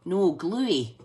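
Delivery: GLUEY said loud and stressed; loud, clearly stressed "gluey"; emphatic correction. Real, not acted. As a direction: correct the mishearing, punching "gluey". Correcting a misheard word, loudly.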